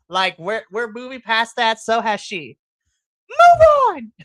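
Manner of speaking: loud, high exasperated rant at the crowd; fed-up outburst ending in a shout; super frustrated. Retold or imitated. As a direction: scold them, building to a high yell. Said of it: "me getting super frustrated".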